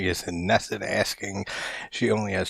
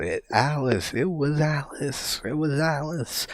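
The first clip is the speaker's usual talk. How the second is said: retold shout; 8 semitones higher than usual. Annie accusing Alice before her husband, high mock shout. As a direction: cry it out high and strained, imitating the actress. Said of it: "she just shouts out".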